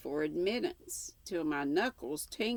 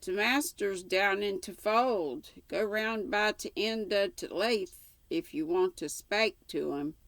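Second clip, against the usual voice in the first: gruff servant; 4 semitones higher than usual. Acted. Servant Joseph answers gruffly.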